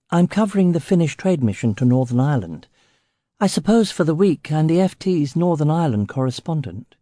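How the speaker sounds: a hint of a chirpy English journalist; young Englishwoman. Reporter Lily voiced by narrator.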